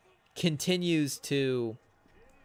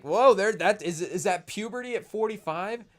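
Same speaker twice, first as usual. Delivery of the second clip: mock announcer crack; 6 semitones higher, 5 dB louder than usual. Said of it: "voice loss moment".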